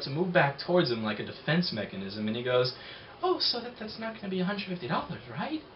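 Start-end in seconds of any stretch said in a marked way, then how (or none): 3.2-5.6 much higher, anxious "right?" rising at the end; nervous pleading voice. Retold or imitated. Customer realizes he still owes, pleading nervously. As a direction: plead like the bill might hurt you. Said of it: "he said it in that voice".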